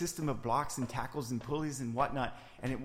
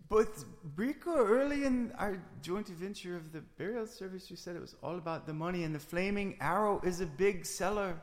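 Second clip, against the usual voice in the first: put-on Scandinavian accent; 5 semitones higher than usual. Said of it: "Is that accent even real?".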